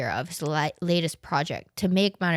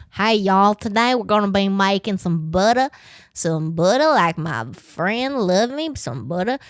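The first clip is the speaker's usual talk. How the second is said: Paula Deen impression; 4 dB louder than usual. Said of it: "is that Paula Deen?".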